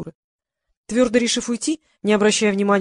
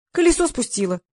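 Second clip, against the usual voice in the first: cheerful; 5 semitones higher than usual. Acted. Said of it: "весело заявила она".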